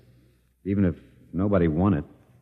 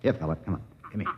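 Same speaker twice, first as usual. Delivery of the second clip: coaxing an animal; 5 dB quieter, faster than usual. Retold or imitated. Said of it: "I even showed him how".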